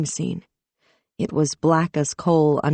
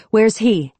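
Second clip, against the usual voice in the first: sharp demanding question, higher and louder; 6 semitones higher, 5 dB louder than usual. A narrator's reading. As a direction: demand an answer from the chief. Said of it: "she demanded".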